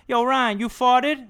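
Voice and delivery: high mock-incredulous friend voice; friends teasing. Friends ribbing Ryan about a fart, high teasing voice. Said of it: "they would go".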